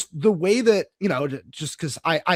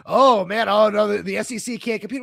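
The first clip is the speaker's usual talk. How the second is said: mock whining. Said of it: "But now it's".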